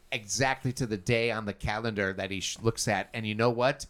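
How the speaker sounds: put-on Irish accent. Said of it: "What is this accent you got going".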